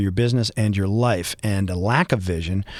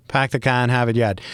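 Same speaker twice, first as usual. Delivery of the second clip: natural Boston accent, unforced; authentic Boston accent. Shown as a demonstration. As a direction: show how Boston really says it. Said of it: "The only guys who get it right".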